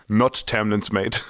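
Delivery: "Not" drawn out and stressed. Retold or imitated. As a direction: lean hard on "Not". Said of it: "the entire sentence is".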